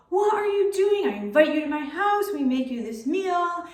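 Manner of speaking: a wife's furious reproach; mad. Acted. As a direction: tear into the master for betraying them. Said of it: "she is so mad at the master".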